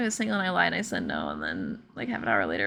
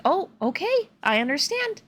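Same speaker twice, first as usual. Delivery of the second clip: higher, lightly voiced polite acceptance; mildly acted understanding, pitched up; retold understanding reply; 6 semitones higher than usual. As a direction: imitate someone gently taking a no. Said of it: "very understanding".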